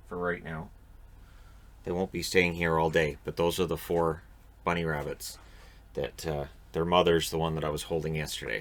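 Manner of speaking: hushed so the bunnies sleep; whispering over a crib. Real, not acted. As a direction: keep it soft, don't wake them. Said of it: "I'm gonna try not to wake 'em up".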